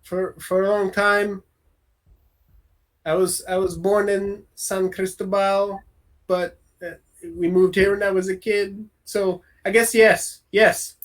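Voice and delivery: halting answer with long pauses; slight stammer. Acted. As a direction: hesitate and repeat your first words. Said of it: "stammers a bit".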